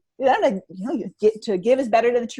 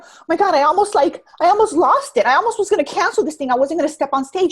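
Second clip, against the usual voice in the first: imitating her friend, loud and higher; retold exclamation; 3 semitones higher, 6 dB louder than usual. Singer to her coach after nearly cancelling, loudly worked up. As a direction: pour out a near miss in an animated voice. Retelling singer's relieved outburst.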